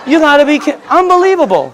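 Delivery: high, laughing unbelief breaking through the words; incredulous laughing outburst; laughing in disbelief. Retold or imitated. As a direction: laugh it out, unable to believe it. Laughing disbelief at friend's answer.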